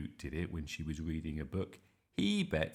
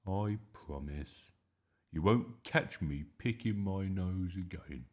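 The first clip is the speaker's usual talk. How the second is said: reluctant; slower than usual. Acted. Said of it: "Bertie sighed heavily".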